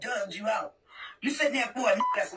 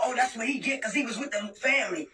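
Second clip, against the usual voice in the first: mocking quote; 3 semitones lower, faster than usual. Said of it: "I'ma sit there and talk about".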